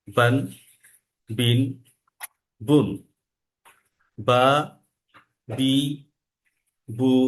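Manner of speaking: বা, বি, বু, বান, বিন, বুন said one by one; six forms of ba. Shown as a demonstration. Teacher recites ba's six vowel forms, clear. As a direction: step through the six sounds of বা clearly. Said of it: "বর্ণের ছয়টা pattern".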